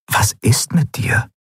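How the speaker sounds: unvoiced whisper; inner thought. A narrator's reading. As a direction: breathe the question silently. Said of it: "dachte Kai".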